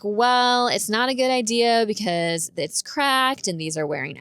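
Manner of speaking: lightly voiced slow, hedging mechanic; retold mechanic. Mechanic warns customer against driving, lightly voiced hesitation. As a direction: draw it out as a hesitant warning.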